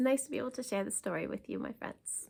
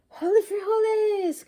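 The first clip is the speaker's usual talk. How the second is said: much higher, loud exclamation; cry out; 12 semitones higher, 11 dB louder than usual. Acted. Scipito thrusting his sword, shouting out. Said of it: "cried Scipito".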